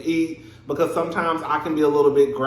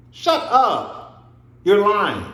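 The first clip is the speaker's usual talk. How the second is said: loud, higher "shut up, you're lying"; yelling at the TV; 5 semitones higher, 5 dB louder, much slower than usual. Real, not acted. Yelling at Jen on the screen, loud and higher. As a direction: call her out loudly.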